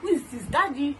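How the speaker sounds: high, loud, startled asking who it is; retelling a panicked phone question to her dad; alarmed question. Retold or imitated. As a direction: cry out in alarm at a stranger's voice. Alarmed call to strange-sounding dad.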